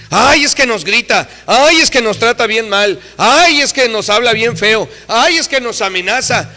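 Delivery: mock childish whining; whiny child complaint. Children complaining about youth.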